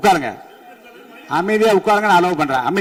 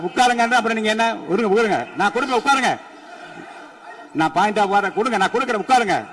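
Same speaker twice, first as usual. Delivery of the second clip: exasperated insistence; 4 semitones higher than usual. Real, not acted. Chair insisting members sit down.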